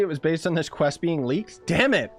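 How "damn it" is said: frustrated outburst. Real, not acted. Learns quest was leaked.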